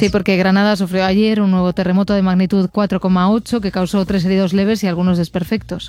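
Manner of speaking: brisk, even headline read; news read. Acted. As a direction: read it as a radio press review. Reads press review headlines.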